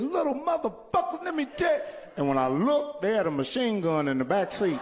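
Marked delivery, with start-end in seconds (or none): 0.0-2.1 mock high voice. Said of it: "I said".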